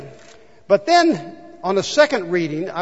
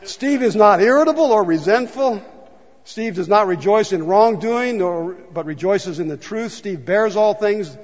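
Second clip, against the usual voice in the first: grin and bear it; sheepish reading. Shown as a demonstration. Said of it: "Here, I'm gonna try it".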